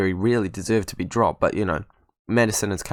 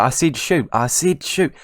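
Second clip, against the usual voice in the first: higher-pitched, insistent correction; insistent protest; 5 semitones higher, 4 dB louder than usual. Real, not acted. Protesting misheard order to player.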